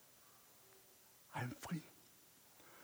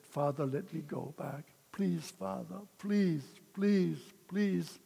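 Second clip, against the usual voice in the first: pleading prayer; 5 dB quieter than usual. Retold or imitated. Begging God weekly in church.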